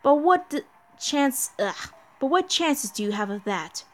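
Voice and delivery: a hint of a mocking villain chorus; lightly voiced demon gods. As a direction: gloat over the doomed heroes.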